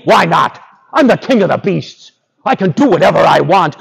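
lightly voiced haughty lion; boastful lion. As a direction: boast as king of the jungle.

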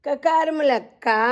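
కకారముల కా read steadily, కా lightly; clear recitation. Shown as a demonstration. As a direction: recite కకారముల కా evenly for children. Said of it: "ఒత్తి పలకాలి". (కకారముల కా స్పష్టంగా పలకండి)

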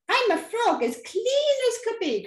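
high-pitched, lightly voiced frog; a hint of a frog, pitched high; croaking frog. A narrator's reading. Frog politely returning the witch's wand, lightly croaking frog. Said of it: "said with a croak".

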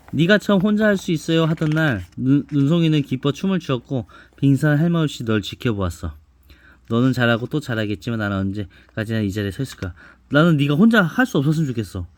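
put-on reading to a child. Mother reads picture book aloud.

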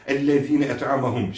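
"Ellezîne" with an extra ne at the end; added ne. Shown as a demonstration. Quran teacher repeating the mistake, extra syllable. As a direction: slip a stray n before "et'amehum". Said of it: "Bunu da kesinlikle okumuyoruz".

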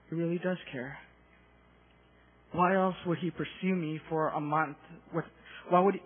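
soft, wondering thinking aloud; subdued, amazed murmur; hushed realization. Retold or imitated. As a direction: let it dawn on you quietly. Retelling sudden awed realization of love.

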